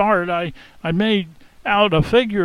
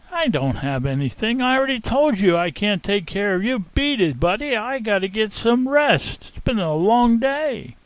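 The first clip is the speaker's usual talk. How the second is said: irritated, higher pitched telling-off; angry shout; 5 semitones higher than usual. Acted. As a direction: snap at him to beat it. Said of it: "I got angry, and I jumped up and I shouted at him".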